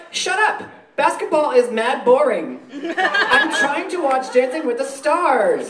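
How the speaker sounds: slow, drawn-out mock annoyance; mock exasperation. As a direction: play a peeved, uninterested retort. Acted comeback to sports taunt.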